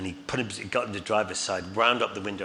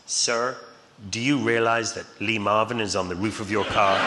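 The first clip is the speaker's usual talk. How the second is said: lightly voiced officer, louder and deliberate; mock policeman; 4 dB louder than usual. Policeman leaning into dad's car window, mock official. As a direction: put on a touch of official formality. Policeman addresses dad, punchline.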